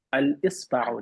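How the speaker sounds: Al-Isba'u with a clear "al-is" opening; distinct l before "isba'u" in Al-Isba'u; alif pronounced. Shown as a demonstration. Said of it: "You're literally pronouncing the alif".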